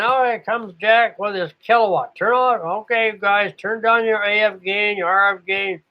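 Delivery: mock heads-up to the other operators; imitated radio operator. Acts out operator announcing Jack.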